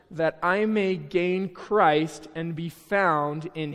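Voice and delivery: slow, measured Bible reading; scripture reading. Acted. Pastor reading Paul's letter to the congregation, slow and measured. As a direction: read the verses with weight. Reads scripture aloud to church.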